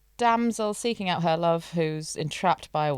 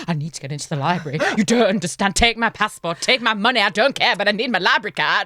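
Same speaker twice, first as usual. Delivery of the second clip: desperate pleading; 4 dB louder, faster than usual. Retold or imitated. Begging to get into library.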